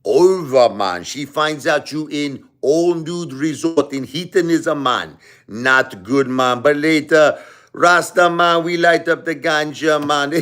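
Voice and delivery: imitated Jamaican man, animated and drawn out; Jamaican accent. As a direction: lay on a playful Jamaican accent. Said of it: "That's what he said".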